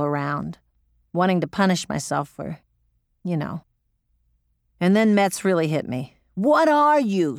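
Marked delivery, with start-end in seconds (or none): 6.3-7.4 slow, high, loud roar of what are you. Retold or imitated. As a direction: bellow it to jolt her. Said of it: "she roared".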